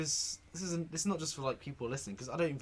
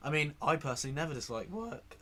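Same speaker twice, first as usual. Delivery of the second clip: voice cracking. Real, not acted. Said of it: "Um, my voice is cracked".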